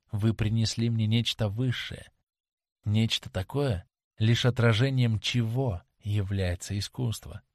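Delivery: lightly voiced girl, earnest and tender; a hint of a lovesick young actress pleading; young actress Sibyl. Sibyl tells Dorian she hates the stage, earnest.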